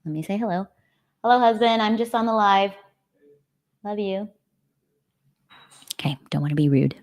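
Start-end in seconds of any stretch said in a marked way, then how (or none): 1.2-4.3 higher-pitched call to husband; greeting husband. Real, not acted. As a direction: call a sweet hello across the house. Calls out to arriving husband.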